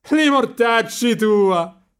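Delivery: high, loud, drawn-out yell; shouted curse. A narrator's reading. Marcello jeers back at his friend, high long shout. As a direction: holler a teasing Roman curse. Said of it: "gridò ridendo Marcello".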